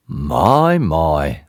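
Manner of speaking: gentle, kindly tramp; mildly amazed, falling away low; gently. A narrator's reading. Tramp to frightened Mister Jelly, gently. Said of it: "said the tramp gently".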